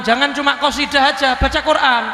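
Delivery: joking through a laugh; chuckling aside. Real, not acted. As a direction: laugh as you land the joke. Laughing joke about the verse.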